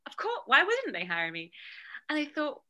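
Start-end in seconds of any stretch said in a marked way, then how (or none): 0.1-1.5 breezy self-assurance, louder on the start; as if it's beyond question; confident. Retold or imitated. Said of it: "all this confidence of like".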